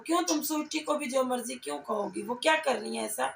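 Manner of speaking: ordinary delivery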